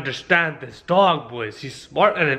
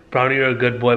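deep voice; 4 semitones lower, faster than usual. Shown as a demonstration. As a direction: lower voice, demonstrating. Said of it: "in a really deep, deep voice".

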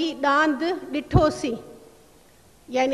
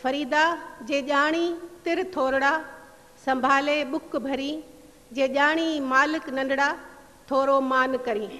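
verse recitation. Acted. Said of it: "اس کے سندھی میں ترجمہ اس طرح ہوگا".

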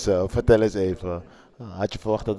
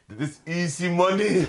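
laughing through a raised, slow easy money; laughing quote; 7 semitones higher than usual. Retold or imitated. Telling a friend the brother's boast, laughing. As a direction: chuckle while quoting the cocky brother. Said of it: "Hij zei".

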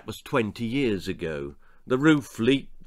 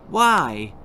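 put-on frail old lady; 4 dB louder than usual. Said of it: "asked Nan".

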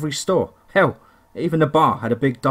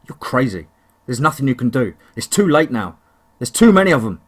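fearful; 4 dB louder than usual. Acted. Frightened local rejects help.

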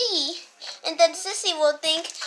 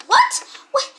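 very high, loud yelp of surprise; shocked what; 10 semitones higher, 7 dB louder than usual. Acted. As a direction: yelp in disbelief. Shock that the cat talks.

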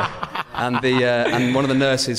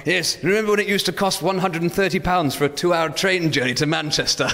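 put-on old person voice; 6 semitones higher than usual. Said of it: "sound older in our voices".

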